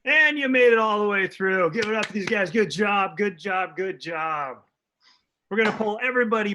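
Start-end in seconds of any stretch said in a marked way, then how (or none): 0.0-4.6 rousing host cheer. Real, not acted. Host applauding players after their scene, rousing cheer.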